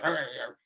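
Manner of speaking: low mock terrier growl; little terrier growl. Guides getting angry, climber answers with a mock terrier growl. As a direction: growl like a small terrier dog. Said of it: "little terrier".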